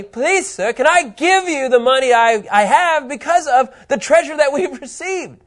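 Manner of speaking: eager acted begging; pleading. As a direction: beg for the chance, hammed up. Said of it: "they're saying".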